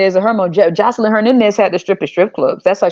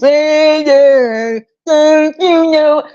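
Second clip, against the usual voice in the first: mock fan; 7 semitones higher, much slower than usual. Mocks fans singing in trance.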